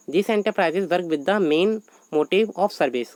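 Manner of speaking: slow, measured dictation of a definition. Acted. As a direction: read it out word by word for notes. Teacher dictates definition in English.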